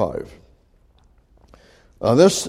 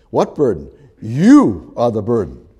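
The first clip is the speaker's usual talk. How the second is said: stern retort; 3 semitones lower, 3 dB louder than usual. Retold or imitated. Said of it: "You just tell 'em".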